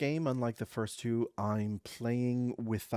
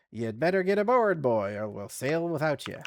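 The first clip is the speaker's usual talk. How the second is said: louder, higher gruff warning; captain calling; 4 semitones higher, 7 dB louder than usual. A narrator's reading. The captain calls the boy aboard, loud. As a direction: call out from the ship.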